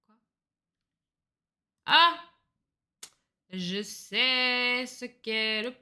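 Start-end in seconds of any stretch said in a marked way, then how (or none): 1.9-2.2 sudden high loud "Ah!"; excited cry. Real, not acted. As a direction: burst out as it clicks. Sudden realization.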